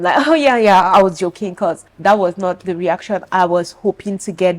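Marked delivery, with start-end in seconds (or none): 0.3-1.5 fake playing along. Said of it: "decided to play along with them".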